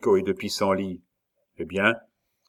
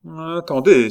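exclamation haute et forte; lance-le comme une idée soudaine; s'écria; 7 semitones higher, 7 dB louder than usual. Acted. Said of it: "s'écria Saint-Luc". (Saint-Luc s'exclame, plus haut et plus fort)

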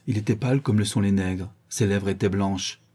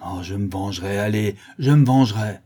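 vengeful rage; 4 dB louder than usual. Acted. Schoolmaster swearing revenge, furious. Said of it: "grinçant les dents de rage".

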